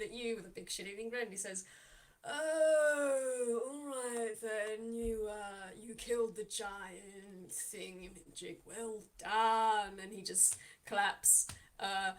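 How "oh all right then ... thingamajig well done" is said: slow, drawn-out mock praise; mocking barkeep. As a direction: tease them slowly, smug. Lao mocks the player.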